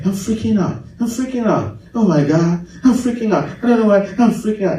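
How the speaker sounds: lightly mocking American panic; put-on American fretting; mock American accent. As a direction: imitate an American freaking out, rapid repeats. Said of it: "you think you sound so American".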